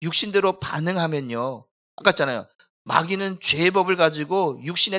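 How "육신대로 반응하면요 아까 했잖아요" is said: ordinary delivery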